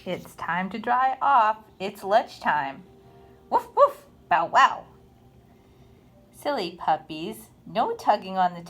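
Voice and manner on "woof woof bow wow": high, loud woof then bow wow; two playful dogs barking; puppy barks. Acted. Two dogs bark in book.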